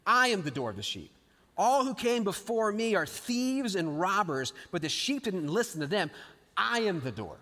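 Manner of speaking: a touch of stern rebuke; firm, measured scolding of the Pharisees; understated angry pronouncement; mild mock anger. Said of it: "in an angry voice".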